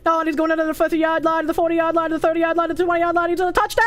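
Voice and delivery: radio announcer. Retold or imitated. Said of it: "Radio sports announcers are even crazier".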